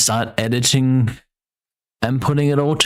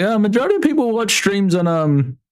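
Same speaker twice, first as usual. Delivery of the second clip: realization voice; 6 semitones higher than usual. Retold or imitated. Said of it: "I was like".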